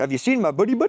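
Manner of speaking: imitated Canadian accent. Retelling a pilot asking everybody about his buddy: imitating a canadian accent. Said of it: "this Canadian".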